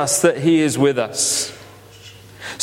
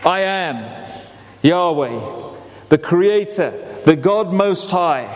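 God's voice; 3 semitones lower than usual. Retold or imitated. God answering Moses from the bush, deep and solemn. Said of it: "And he says".

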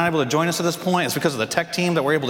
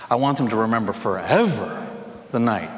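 low intense line; 5 semitones lower, 3 dB quieter than usual. Retold or imitated. Coach's signature line, low.

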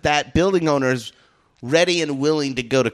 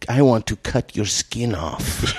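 low, slow, dead-eyed threat; deadpan menace; 5 semitones lower than usual. Retold or imitated. Guard threatening the teenagers, low and slow. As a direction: say it flat and slow like you mean it. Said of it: "I am Iranian Sy-, Assyrian".

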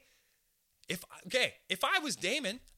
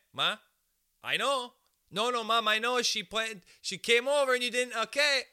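mock exasperated protest; 6 semitones higher, 4 dB louder than usual. Young self arguing with mom.

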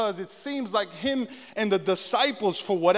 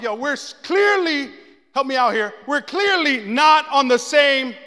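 exasperated Jesus; 3 semitones higher, 5 dB louder than usual. Acted.

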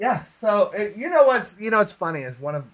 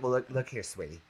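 southern drawl; 6 semitones lower, 13 dB quieter than usual. Retold or imitated. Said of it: "she'll even use that southern drawl".

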